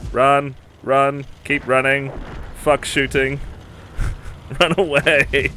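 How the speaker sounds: excited yelling, high and loud; being chased. Real, not acted. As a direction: yell run like you're chased. Excited yelling while teammate flees.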